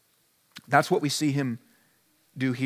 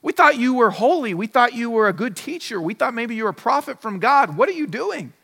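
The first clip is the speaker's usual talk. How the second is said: complaining crowd; 3 semitones higher than usual. Retold or imitated. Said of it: "they're complaining, saying".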